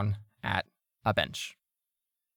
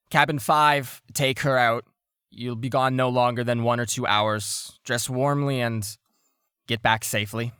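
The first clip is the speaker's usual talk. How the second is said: firm, raised voice easing off; commanding shipmaster; 2 semitones higher, 5 dB louder than usual. Acted. Shipmaster orders cabin five out, commanding. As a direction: issue orders to the crew.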